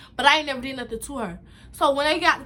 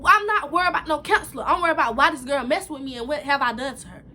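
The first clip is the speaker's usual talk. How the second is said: upset retort; 3 semitones higher, 3 dB louder than usual. Retold or imitated. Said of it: "trying to tell my grandma".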